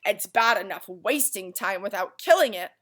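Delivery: angry lecture. Acted. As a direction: scold the idle boy. Dog furious at Milo.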